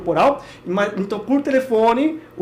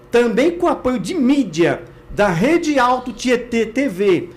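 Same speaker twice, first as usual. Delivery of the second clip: emphatic promo read; punchy sponsor-style read with deliberate phrasing; event announcement; 4 dB louder than usual. Real, not acted.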